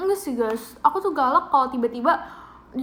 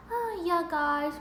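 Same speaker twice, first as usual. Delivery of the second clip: slow, softer, higher mock shy voice; dainty hushed little greeting; soft-spoken imitation; 4 semitones higher, 5 dB quieter, much slower than usual. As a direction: play the timid soft-spoken girl. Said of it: "jadi soft spoken".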